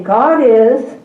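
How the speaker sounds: God is called out to the class; loud classroom prompt. Shown as a demonstration. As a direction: call out God is as a cue. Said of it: "I'll say God is".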